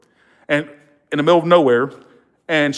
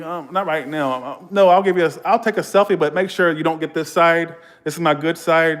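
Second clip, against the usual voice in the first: lightly played star, pitched up; pretend celebrity; 4 semitones higher than usual. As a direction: play at being a star granting a fan a selfie. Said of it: "act like I was this well-known person".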